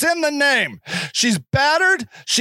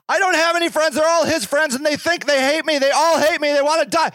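desperate woman; 5 semitones higher than usual. Retold or imitated. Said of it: "the woman pleads".

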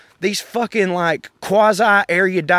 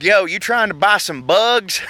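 mock shady clerk; 5 semitones higher than usual. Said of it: "a motherfucker in there going like".

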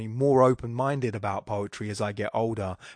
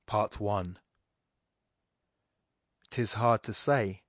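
slow, measured recitation of verse; poetry reading; slower than usual. Acted. Podcast host reciting Pope's Essay on Criticism to listeners, slow measured recitation. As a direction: read each couplet slowly and let it land. Reads Pope's poem aloud.

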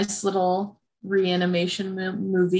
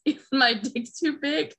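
higher-pitched tentative question; mild mock concern; 5 semitones higher than usual. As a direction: imitate him checking, a little worried. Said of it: "he gets kinda concerned".

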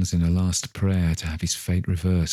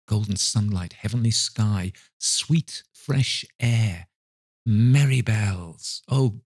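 rapturous delight; 3 semitones higher, slower than usual. Acted.

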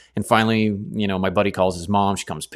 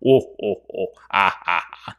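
Jabba laugh. Retold or imitated. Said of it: "this big frog laughing thingy".

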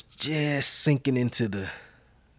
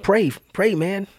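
inner voice; 8 semitones higher, slower than usual. Retold or imitated. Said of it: "something said".

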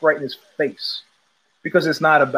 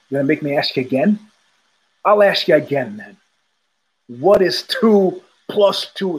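mock enraged teacher. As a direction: lean in and grind the question out. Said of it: "he's enraged".

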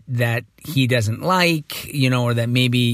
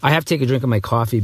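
groggy morning voice. Real, not acted. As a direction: voice still rough from sleep. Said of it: "I think this is my morning voice".

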